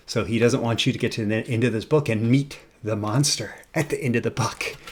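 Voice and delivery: ordinary talk, nothing marked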